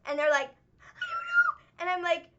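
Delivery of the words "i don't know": very high, slow, whiny wail; mock sobbing kid. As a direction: stretch it out like a crying child. Kid crying after falling.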